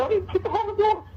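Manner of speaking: very high, fast pleading denial; high pleading protest to his wife; squeaky pleading denial. Retold or imitated. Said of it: "his voice gets all low and squeaky".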